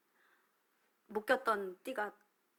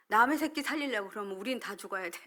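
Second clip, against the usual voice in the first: mildly angry retold outburst; retold anger; 4 dB louder than usual. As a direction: replay a heated retort, only slightly raised. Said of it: "화가 나니까요. 감정이 막". (살짝 화난 듯 옮기는 말투)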